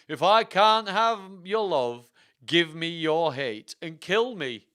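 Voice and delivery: loud, slow, high theatrical plea; pleading. Acted. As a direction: beg like a lovesick stage villain. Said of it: "I pleaded".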